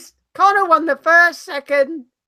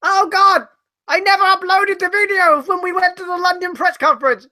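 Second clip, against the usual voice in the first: raised, higher-pitched outcry; yelling at co-host; 5 semitones higher than usual. Real, not acted. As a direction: burst out in sudden dismay. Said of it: "hear you guys yelling at each other".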